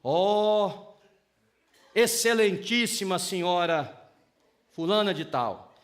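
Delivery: slow, over-formal declaration to the wife; lightly mocking grandiose suitor; mock flowery courtship. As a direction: ham up the old-fashioned gallantry. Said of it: "fala assim".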